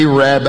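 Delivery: Arab said as AY-rab; local pronunciation. Shown as a demonstration. Pastor naming the Alabama town, Arab pronounced locally as AY-rab. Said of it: "That is the way they pronounce that town".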